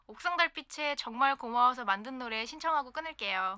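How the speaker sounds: fast soft whisper. Acted. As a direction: whisper it quickly, secretively. Caller whispers her song request.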